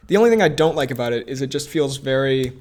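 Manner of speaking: talking while eating peas; words round a mouthful of peas; mouth full. Real, not acted. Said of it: "I'm eating some peas".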